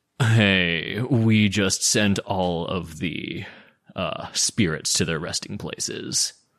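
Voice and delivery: character voice with a long, stretched-out hey. Imagining Slash greeting them back at Richten House, in a Slash impression. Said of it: "That's an amazing Lustra impression".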